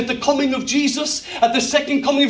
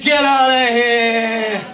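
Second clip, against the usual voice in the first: shouted rebuke; much slower than usual. Pretend. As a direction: spell it out hard. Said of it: "He said".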